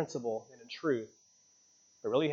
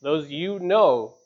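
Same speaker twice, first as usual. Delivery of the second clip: slow emphasis; 4 dB louder, much slower than usual. Real, not acted. Preacher slows for emphasis.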